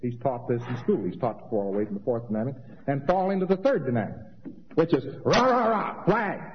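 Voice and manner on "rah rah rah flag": mock cheer. Mocking patriotic cheering.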